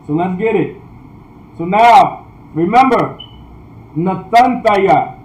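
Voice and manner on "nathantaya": slow, careful "Nathantaya"; pronunciation demo. Shown as a demonstration. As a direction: sound out "Nathantaya" slowly as a teacher. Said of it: "It's pronounced Nathantaya".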